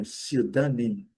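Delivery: "pseudônimo" in English, SIU-da-nim; P e E mudos. Shown as a demonstration. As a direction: say "pseudônimo" without the P, first syllable strong. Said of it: "o E também não". ("pseudônimo" em inglês, soando "siú-danim")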